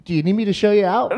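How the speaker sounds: mock brusque. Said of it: "The line was something along".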